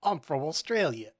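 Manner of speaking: light, passable-at-best Australian accent; attempted Australian accent. Shown as a demonstration. Friend taking a turn at the Australian accent. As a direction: have a brief go at Australian. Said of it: "Now you do it".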